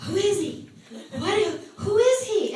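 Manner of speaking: high, eager, almost pleading; eager pleading question. Retold or imitated. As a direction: beg to know who he is. Eager seeker pressing the question.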